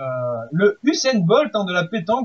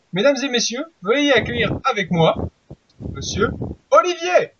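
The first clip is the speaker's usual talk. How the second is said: grand entrance announcement; 4 semitones higher than usual. Acted. Host introduces guest.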